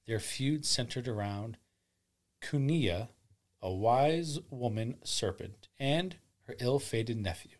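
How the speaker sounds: solemn storyteller; grave ancient myth telling. A narrator's reading. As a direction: tell it like an ancient legend.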